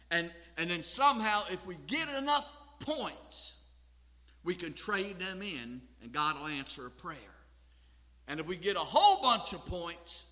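loud pulpit build with punched words; emphatic preaching. Real, not acted. Preacher mocking the idea of trading points for prayer, emphatic preaching. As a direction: hit the key words hard.

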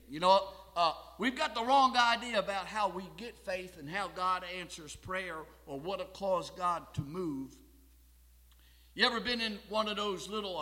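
loud, driving pulpit delivery; emphatic preaching. Real, not acted. Preacher telling congregation they have the wrong idea, emphatic preaching. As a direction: press the point home forcefully.

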